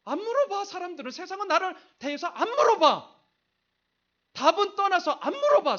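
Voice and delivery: high, loud cry of grievance; impassioned outcry. Acted. Preacher voicing the unheard child's grievance, impassioned outcry. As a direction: cry it out at full force, pitched high.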